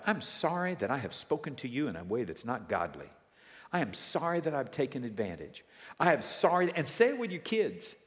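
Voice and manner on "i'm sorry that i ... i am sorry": deliberate, full apology spoken out; an earnest, spelled-out confession; recited apology. Shown as a demonstration. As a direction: recite each admission lowered and measured. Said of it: "Recite it out loud".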